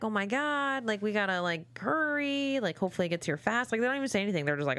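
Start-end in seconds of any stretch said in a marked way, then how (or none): 0.0-3.7 mock panic. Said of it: "I would still be like".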